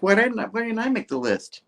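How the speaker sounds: high, put-on sulky voice; whiny Harry. Jealous Harry sulks about not making the list, high and whiny. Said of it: "It's like".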